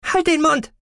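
high, sharp hushing order; warning. A narrator's reading. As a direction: cut her off with a warning. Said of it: "rief Aglaya warnend".

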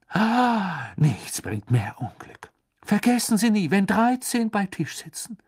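spooky prophetess warning of doom; Trelawney voice. A narrator's reading. (unheimliche Seherin, geheimnisvoll)

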